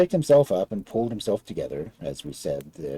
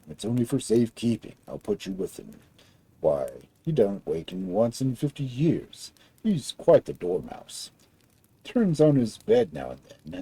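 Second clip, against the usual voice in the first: deliberate big giant. Acted. Giant explains and leads her.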